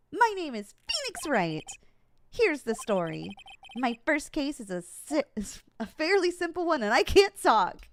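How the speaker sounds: put-on high childlike voice. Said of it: "made him so high-pitched and small childlike".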